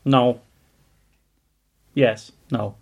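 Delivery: ordinary delivery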